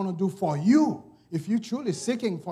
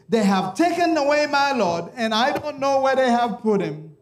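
Mary's lament; 5 semitones higher than usual. Acted. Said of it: "after she said".

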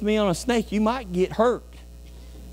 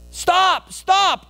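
much higher, louder mock yell; retold shout; 12 semitones higher, 6 dB louder than usual. Dad warning preacher about snake, mock shout. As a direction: call out like a panicked dad.

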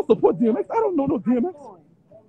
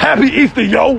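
Happy Easter, yo tossed off in a put-on New York accent, a bit higher; mock New York accent, meant with gusto; mock New Yorker; 4 semitones higher than usual. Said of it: "Say it like a New Yorker, like you mean it".

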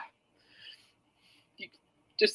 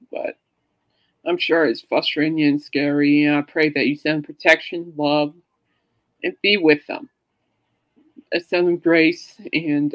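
earnest prayer; 3 semitones lower than usual. Acted. Leading friends in prayer for Jay Leno's wife, earnest prayer. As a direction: pray aloud for them, gently and sincerely.

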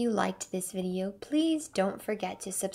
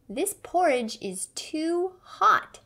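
a higher, louder cry of complaint; exclaiming; 7 semitones higher, 4 dB louder than usual. A narrator's reading. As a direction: blurt out that it's too hot. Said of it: "she exclaimed".

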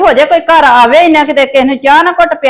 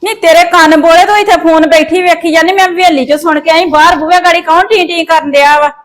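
scolding; 5 semitones higher than usual. Acted. Scolding argument over the door.

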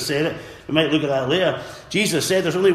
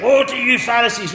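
high, louder cry of woe; shouted woe; 6 semitones higher, 4 dB louder than usual. Retold or imitated. Preacher voicing the shouted rebuke, loud. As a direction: call out woe to the Pharisees. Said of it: "he shouted".

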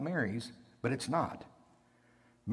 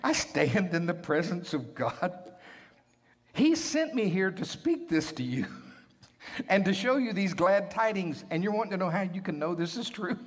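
indignant angel; 7 semitones higher than usual. Acted. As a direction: play Gabriel as affronted at being doubted. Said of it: "his attitude is completely different".

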